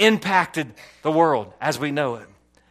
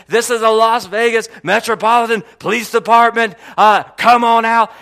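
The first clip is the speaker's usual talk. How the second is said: PA announcement; 4 semitones higher, 5 dB louder than usual. Retold or imitated. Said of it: "they said, on the P A".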